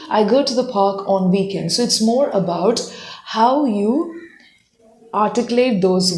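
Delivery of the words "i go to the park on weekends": go slower. Shown as a demonstration. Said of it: "go slower".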